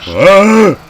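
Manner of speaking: very high, loud scream; sudden full-voiced scare cry; startled scream. Real, not acted. Player scared mid-sentence by the game, startled scream.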